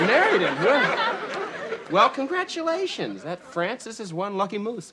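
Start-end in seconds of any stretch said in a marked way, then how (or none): 0.1-3.2 high, startled congratulations; flustered surprise. Acted. Learning she married the man he mocked, flustered. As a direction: recover from shock with overdone congratulations. Stunned he insulted her husband.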